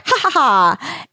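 hammed-up "ha ha ha"; mock villain laugh. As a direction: spell out a taunting laugh. Kundry's mocking laugh, acted.

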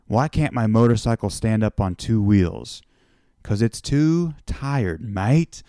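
lightly attempted Australian accent. Aussie biker joking with a visitor, light Australian accent. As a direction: tell a corny joke with a slight Aussie twang. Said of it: "sorry if this accent isn't working out".

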